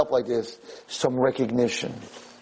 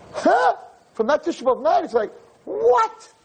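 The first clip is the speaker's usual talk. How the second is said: utterly baffled; disbelief. Real, not acted. Shocked at her transformation.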